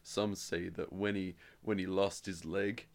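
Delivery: slow, halting mock-solemn film line. Co-host imitating the war-veteran dad, slow mock solemnity. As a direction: draw it out with grave pauses.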